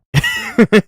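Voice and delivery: giggling at own silly voice; high giggle. Real, not acted. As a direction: burst of high-pitched laughter. Laughs at own squeaky impression.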